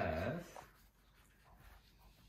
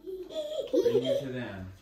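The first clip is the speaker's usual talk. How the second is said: laughing dragon voice; 3 semitones higher, 11 dB louder than usual. Acted. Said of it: "said the dragon".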